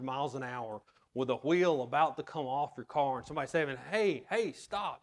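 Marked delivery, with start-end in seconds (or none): 3.9-5.0 warning call. Pretend. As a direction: shout a warning at the speeding driver. Calling a warning to speeding driver.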